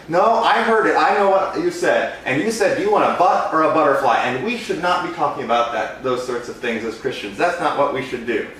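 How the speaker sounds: indignant lady. Retold or imitated. Balloon artist voicing the mother who called to complain, indignant. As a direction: huff it out like a scandalised churchgoer. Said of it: "lady retorts".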